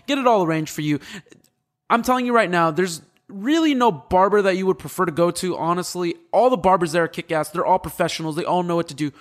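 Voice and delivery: upbeat sales pitch for the barbershop, steady and promotional; sponsor ad read. Acted. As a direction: sell it like a radio ad spot. Host reads sponsor ad.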